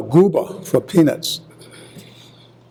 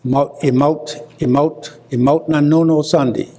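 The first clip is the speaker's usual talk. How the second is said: Gullah proverb. Shown as a demonstration. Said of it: "in Proverbs".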